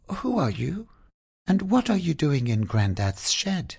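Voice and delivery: put-on high, wondering child's voice; curious little girl Zoe. Zoe questions the dragon she found in the shed, high and wondering.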